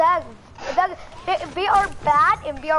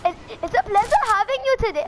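higher, imitating British; attempted British accent; 6 semitones higher than usual. Copying the teammate's pleasantry, attempted British accent. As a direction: try out a British accent, pitched up. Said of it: "How do you speak British?".

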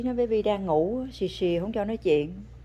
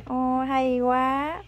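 drawn-out praise; 3 semitones higher, much slower than usual. Real, not acted. Praising toddler's toy gun.

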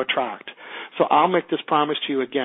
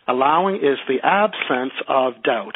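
slow dictation; slower than usual. Shown as a demonstration. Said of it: "can you repeat that sentence again?".

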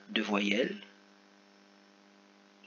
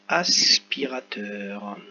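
lecture articulée; 4 semitones lower, much slower than usual. Shown as a demonstration. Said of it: "je lis".

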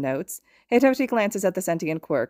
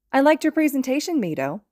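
friendly compliment; 9 semitones higher, 3 dB louder than usual. A narrator's reading. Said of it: "Ashido compliments".

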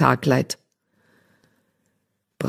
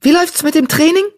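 quick, higher bright apprentice voice; eager question; 13 semitones higher, 3 dB louder, faster than usual. Acted. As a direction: fire it off, curious. Eager apprentice greets friend. (neugierig und schnell)

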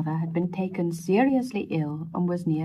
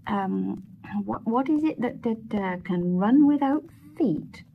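puzzled repeating; 4 semitones higher than usual. Acted. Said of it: "repeated the young man".

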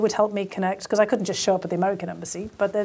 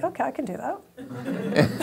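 laughing agreement; 5 semitones higher, 4 dB quieter, slower than usual. Retold or imitated. Agreeing to odd job, laughing.

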